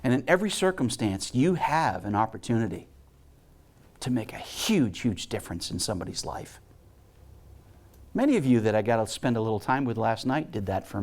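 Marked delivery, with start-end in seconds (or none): 4.0-6.6 hushed, softer and lower on huge difference; quiet, intimate emphasis. Real, not acted. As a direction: lean in quietly on the point.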